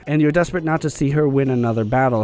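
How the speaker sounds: tired, strained voice; hoarse voice. Real, not acted. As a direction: talk with a worn-out voice. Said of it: "my voice is gone".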